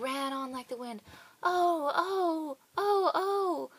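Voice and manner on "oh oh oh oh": high, loud frightened cries; crying out. Acted. Gingerbread boy cries out in fright. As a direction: wail in sudden alarm. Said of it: "cried the gingerbread".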